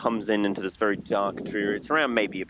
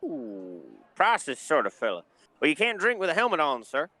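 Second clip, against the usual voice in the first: bartender voice; 2 semitones higher than usual. Acted. GM holds the bartender voice.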